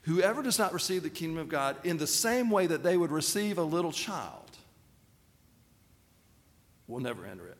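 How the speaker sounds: "same" given a gentle rise; light stress on same. Shown as a demonstration. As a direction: repeat with a lift on "same". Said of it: "Think about that again".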